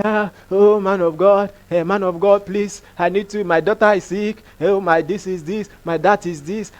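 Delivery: lightly acted begging, softened voice; subdued, halting mock plea; pleading beggar. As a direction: imitate a man pleading for food. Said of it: "was begging for food".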